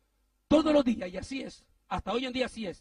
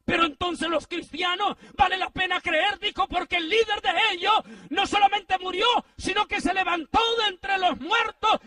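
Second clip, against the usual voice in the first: loud, high, building sermon proclamation; fervent preacher's shout of hope; preaching climax; 8 semitones higher, 5 dB louder than usual. Acted. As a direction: proclaim it to the congregation, rising.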